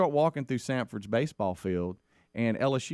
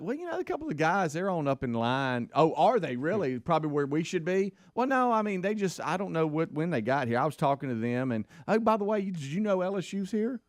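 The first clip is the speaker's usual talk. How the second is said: higher sheepish rambling excuse; 6 semitones higher than usual. Retold or imitated. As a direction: fumble for an alibi.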